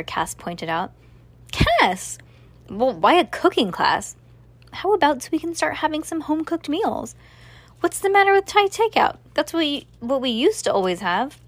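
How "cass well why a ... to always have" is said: higher, fast, exasperated mother's voice; a mother pleading, pitch climbing higher and faster. A narrator's reading.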